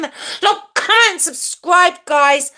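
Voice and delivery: high, chanty plug; catchphrase jingle. Shown as a demonstration. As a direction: deliver it as a practised high jingle. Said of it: "what I said in my jingle".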